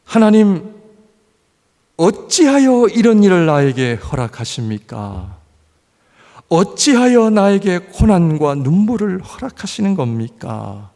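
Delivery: loud, pleading lament; anguished protest to God. Acted. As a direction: cry out why God allows suffering. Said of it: "어떻게 이럴 수 있습니까?". (하나님께 울부짖는 큰 소리의 탄식)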